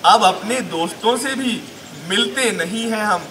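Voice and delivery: measured, lilting Urdu verse recital; deliberate poetic delivery; mushaira recitation. Acted. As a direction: recite the couplet line by line, with pauses. Recites comic marriage verse.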